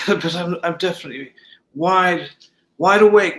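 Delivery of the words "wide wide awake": emphatic wide awake. Real, not acted. Insisting he is awake.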